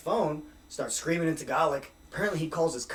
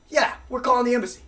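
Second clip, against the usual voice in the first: mock insistent cop; 8 semitones higher, 5 dB louder, faster than usual. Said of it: "Cop goes".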